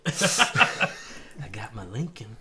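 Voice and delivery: very slow laughing McConaughey drawl; Matthew McConaughey. Pretend. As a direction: stretch every word, cracking up. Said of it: "McConaughey impersonation".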